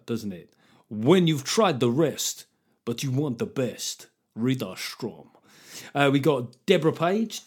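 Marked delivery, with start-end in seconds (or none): 0.9-5.3 slow mock advert voiceover; cider ad voice. Host imagines a cider brand, mock ad voiceover. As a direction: sell it like a cheap cider ad. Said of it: "sound like a really high volume cider".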